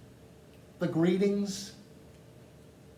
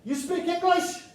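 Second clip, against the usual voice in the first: loud American tourist; 12 semitones higher, 3 dB louder than usual. Retold or imitated. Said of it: "the number one reason is".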